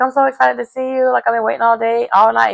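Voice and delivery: mild excitement. Retold or imitated. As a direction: quote him gushing lightly. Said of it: "he's excited to see her".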